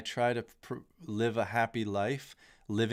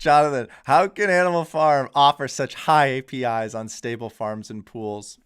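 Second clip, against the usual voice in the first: loud, high, hammed-up British accent; bad British accent; 4 semitones higher, 11 dB louder than usual. A loud, bad British accent, asking Jonathan questions on a video. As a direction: ham up a British accent and don't quite hold it. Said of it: "That is a terrible British accent".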